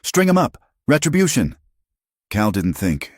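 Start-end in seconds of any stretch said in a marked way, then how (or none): 0.0-1.6 very high, rousing cry to a crowd; mob yell. A narrator's reading. Someone urging the mob to hang the family, high-pitched yell. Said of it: "someone yelled".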